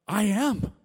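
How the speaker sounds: high, loud acted-out answer; retold reply, shouted high; loud declaration. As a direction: belt it out as a proud confession. Loud answer to sudden question.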